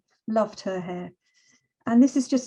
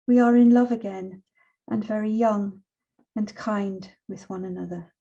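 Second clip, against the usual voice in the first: poetry reading. Acted. Reads poem The Strangest Happiness.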